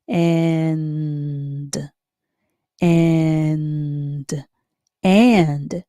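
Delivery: teacher blending the word and. Shown as a demonstration. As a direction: build and from its sounds. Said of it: "the D has the D sound".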